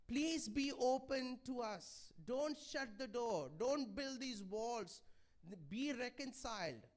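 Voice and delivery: slow, earnest plea to open up; pleading. Retold or imitated. Preacher voicing Paul begging the church, slow and earnest. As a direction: gently beg them not to shut the door. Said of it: "he's pleading with them".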